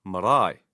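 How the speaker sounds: "marae" stressed on the final AE; stress on diphthong. Shown as a demonstration. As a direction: say "marae" as ma-RAI. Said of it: "Hear how the stress is on the diphthong".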